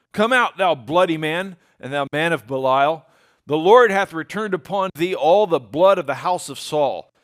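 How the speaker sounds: loud, forceful scriptural curse read with heat; cursing Shimei. Acted. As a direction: hurl it at the king like a furious madman. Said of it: "saith Shimei when he cursed".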